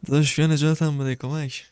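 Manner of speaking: hammed-up plea for help; captive boy calling. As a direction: play the trapped boy begging to be rescued. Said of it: "میگه بیا کمکم کن".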